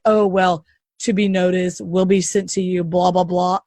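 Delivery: low, droning imitation of excuses; dismissive mock quote. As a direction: recite it low and uninterested, mocking them. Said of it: "Anybody else is like".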